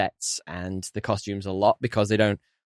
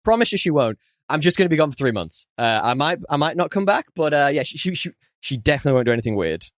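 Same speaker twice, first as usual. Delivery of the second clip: higher, louder breezy promises; hammed-up husband begging a favour; mock pleading husband; 3 semitones higher, 3 dB louder than usual. Voicing the husband leaving.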